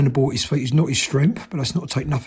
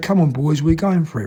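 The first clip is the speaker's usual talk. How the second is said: ordinary delivery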